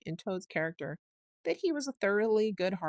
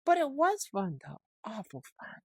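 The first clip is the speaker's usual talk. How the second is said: mutinous; 4 semitones higher, 4 dB louder than usual. A narrator's reading. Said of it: "he kept saying to himself mutinously".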